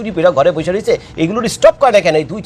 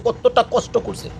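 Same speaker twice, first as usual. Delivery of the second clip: much softer, slow, কতটা fading; quiet slow echo; 3 semitones higher, 8 dB quieter, slower than usual. Real, not acted. Vlogger echoing Gaza's suffering, soft and slow. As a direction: let কতটা কষ্ট করছে sink almost to nothing.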